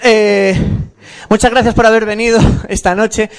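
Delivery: out of breath after singing; panting between phrases; gasping for air. Real, not acted. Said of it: "Déjame coger aire".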